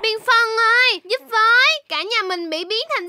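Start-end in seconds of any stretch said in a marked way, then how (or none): 0.0-1.7 mildly urgent call for help. Acted. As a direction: call out to a friend to help you. Calls friend for help. (gọi bạn cầu cứu)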